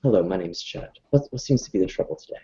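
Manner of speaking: soft, kindly greeting to an upset stranger; very gently. Acted. Chet greets the scowling seamstress kindly and softly. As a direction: ease in gently, like calming someone. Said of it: "ve-, very gently".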